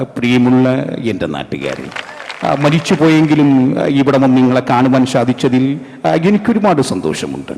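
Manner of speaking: lightly voiced measured star addressing his fans; Prem Nazir impression. Film star greeting his countrymen, gently mimicked. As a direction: make a courtly speech with breaks between phrases. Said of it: "സ്ഥിരം ഒരു ശബ്ദമുണ്ട്".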